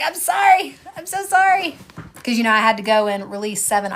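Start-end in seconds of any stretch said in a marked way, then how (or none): 0.0-1.8 apologetic quote. Retold or imitated. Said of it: "and I was like".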